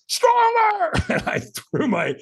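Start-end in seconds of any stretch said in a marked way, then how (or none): 0.1-0.9 very high, strained mock scream; high-pitched re-enacted coach's command; retold in-your-face scream. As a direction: scream it like a trainer demanding more. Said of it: "screamed at me, like, in my face".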